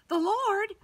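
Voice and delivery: amazed disbelief, leaping up; surprised. Acted. Peter stunned by the news.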